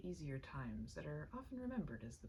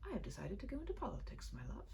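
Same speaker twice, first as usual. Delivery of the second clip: almost carelessly; 5 semitones higher, faster than usual. Acted. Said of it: "he said almost carelessly".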